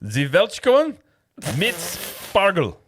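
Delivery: high, loud, drawn-out German bark; mock-furious German, each word attacked; very aggressive German. Shown as a demonstration. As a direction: say it aggressively, with total confidence. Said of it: "say it very aggressively and with confidence".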